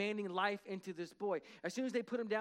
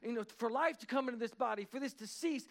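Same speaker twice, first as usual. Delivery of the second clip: raised, urgent prayer of command; 4 semitones higher than usual. Retold or imitated. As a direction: retell a minister ordering life back. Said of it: "he's speaking life".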